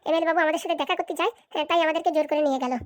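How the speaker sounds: ordinary delivery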